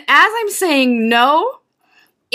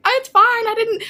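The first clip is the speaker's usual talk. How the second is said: breezy it's fine, pitched up; imitating Carrie; 12 semitones higher than usual. Carrie forgiving her at the con, in a higher voice. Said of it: "he's like".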